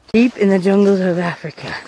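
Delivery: low, dramatic nature-film voice; documentary narrator. Pretend. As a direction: intone it like a wildlife documentary. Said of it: "Just kidding".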